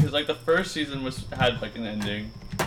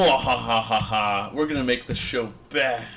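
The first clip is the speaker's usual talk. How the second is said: mad scientist; slower than usual. Pretend. Villain voice for Cartoon Network.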